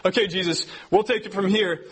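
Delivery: high, laughing excited mock disciples. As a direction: gush like thrilled campers wanting to stay. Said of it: "They go, they go".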